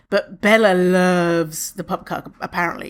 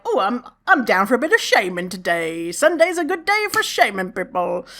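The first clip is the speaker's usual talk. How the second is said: smug mocking voice rising higher; mocking the man; 3 semitones higher than usual. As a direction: lampoon a man who likes shaming. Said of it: "he was just like".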